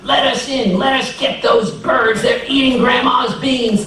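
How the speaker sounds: clamoring to be let in; urgent neighbors. Acted. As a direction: call through the door, pitched high. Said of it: "the neighbors started pounding on the door".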